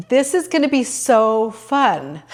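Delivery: slow, giddy with delight; excited. Retold or imitated. Leaving the temple, telling herself it will be fun, excited. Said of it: "I was excited".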